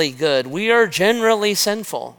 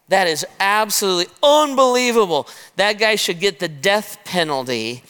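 outraged; 3 semitones higher than usual. Acted. Preacher voicing David's indignation.

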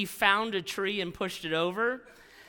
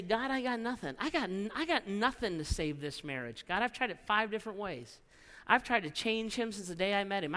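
humble prayer; 4 dB quieter than usual. Acted. Voiced prayer of a broken person.

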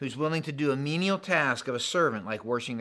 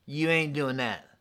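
louder, insistent No way; emphatic refusal; 5 dB louder, slower than usual. Retold or imitated. Peter refusing to let Jesus wash his feet, emphatic. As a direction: push back hard on the first words. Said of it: "this in the original language is emphatic".

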